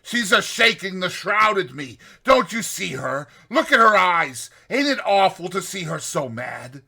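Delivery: high, loud panicked pleading; frantic cries. Retold or imitated. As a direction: beg them to see what he sees. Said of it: "he cries out".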